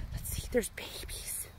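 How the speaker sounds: soft whisper to babies; hushed, so the animals stay calm. Real, not acted. Whispering near baby animals.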